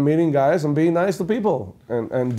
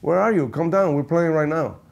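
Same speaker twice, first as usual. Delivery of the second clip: imitating bandleader; 5 semitones higher than usual. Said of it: "He says".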